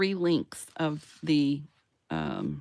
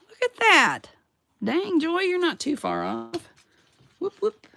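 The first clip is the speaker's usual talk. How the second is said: much higher and louder, delighted with herself; excited cheer; 13 semitones higher, 6 dB louder than usual. Real, not acted. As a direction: cheer yourself on, thrilled. Proud of her close result.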